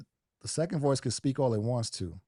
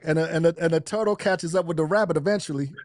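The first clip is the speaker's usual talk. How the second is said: laughing through the punchline, louder; a loud real laugh bursting out at the end; 5 semitones higher, 5 dB louder than usual. Real, not acted. Caller laughs at his own turtle-and-rabbit joke, laughing loudly.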